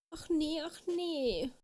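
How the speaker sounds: high, plaintive fairy lament; dismayed wail. A narrator's reading. Little fairy realises nobody can help her, wailing. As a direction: wail it high without shouting. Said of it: "schrie die kleine Fee".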